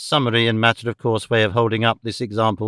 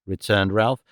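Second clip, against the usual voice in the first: usual speaking voice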